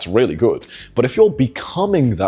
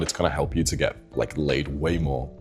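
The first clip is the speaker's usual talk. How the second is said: deep sexy voice; 5 semitones lower, 7 dB quieter than usual. Shown as a demonstration. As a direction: drop into a deep seductive voice. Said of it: "Use your deep, sexy voice".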